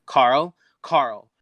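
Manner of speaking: calling a name in search. Acted. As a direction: call out for a missing friend. Faye calls out searching for Carl.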